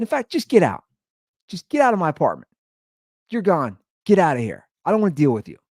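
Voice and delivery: worked-up, emphatic dismissal; retold eviction outburst. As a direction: throw the roommate out. Retells throwing the roommate out.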